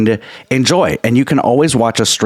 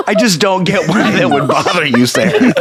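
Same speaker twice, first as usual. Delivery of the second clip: mock innocent; 6 semitones higher than usual. Mock-innocent teasing punchline.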